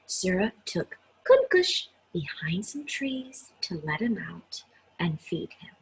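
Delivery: gentle read-aloud narration; story reading. A narrator's reading. Teacher reading a picture book to her class, gentle read-aloud. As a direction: read it to children, unhurried and clear.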